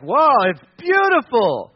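drawn-out mock wonder; lightly hammed-up awe; feigned admiration. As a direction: gush slowly over what you can't see. Emperor pretends to admire invisible cloth.

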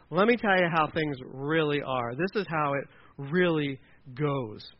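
slow, measured explaining; deliberate, drawn-out lecture; patronising elder. Acted. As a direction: spell it out slowly for a naive youngster.

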